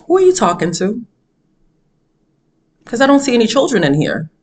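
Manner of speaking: measured, retold calm challenge. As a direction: ask it evenly, leaving space, without yelling. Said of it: "looked at her very calmly".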